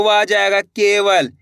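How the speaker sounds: slow, spelled-out केवल as के-वल; teacher sounding out केवल slowly; slow syllable demo. Shown as a demonstration. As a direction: draw out the syllables of केवल for the class. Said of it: "वल बोलेंगे".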